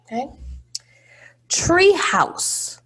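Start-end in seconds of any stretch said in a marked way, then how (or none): 1.5-2.8 Tree house whispered high; whispered word. Shown as a demonstration. Teacher whispering the word to the class. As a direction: breathe Tree house like a secret. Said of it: "Do you hear a s or a".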